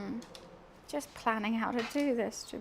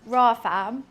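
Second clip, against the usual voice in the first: street London; 6 dB louder than usual. Shown as a demonstration. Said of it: "that kind of vibe".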